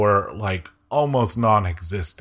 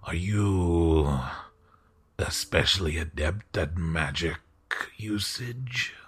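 courtly host voice; 4 semitones lower, 3 dB quieter than usual. Acted. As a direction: ask it like a curious, polite lord. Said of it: "and he goes".

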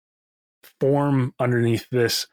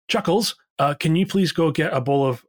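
calling over; 5 semitones higher than usual. Acted. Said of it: "calls over to, like, the third nurse".

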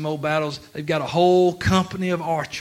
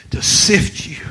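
whisper; 3 semitones higher, 6 dB louder than usual. Acted. Satan's menace quoted.

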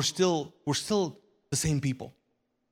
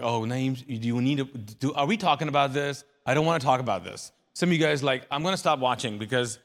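flustered listener; 5 dB louder, faster than usual. Retold or imitated. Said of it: "And you're like".

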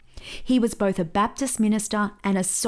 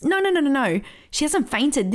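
higher-pitched, quick string of denials; retold emphatic objection; insistent correction; 5 semitones higher than usual. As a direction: wave away the worry, pitch raised. Prophet reassures onlookers in story.

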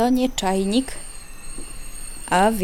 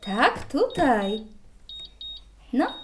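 normal talking voice

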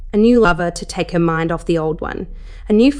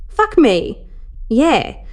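higher-pitched, urgent exclamations; passionate cry; 6 semitones higher, much slower than usual. A narrator's reading. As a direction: cry out briefly in pleasure, pitched up. Character cries out in passion.

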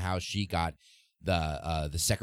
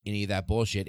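mock outraged brush-off; 3 semitones higher than usual. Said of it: "he was like".

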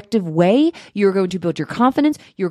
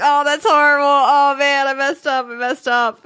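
high, louder, hammed-up dismay at herself; mock self-put-down; 6 semitones higher, 3 dB louder than usual. Imitating herself rejecting a compliment, hammed-up dismay. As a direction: overplay brushing the compliment away. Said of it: "And I was like".

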